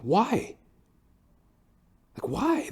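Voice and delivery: high, exasperated why; incredulous why. Retold or imitated. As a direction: plead with disbelief, pitch way up. Baffled complaint about the flooding.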